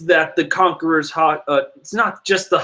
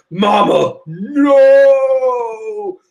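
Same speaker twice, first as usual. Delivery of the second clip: Katakuri pleading; 7 semitones higher, 5 dB louder, much slower than usual. Retold or imitated. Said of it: "Katakuri's just like".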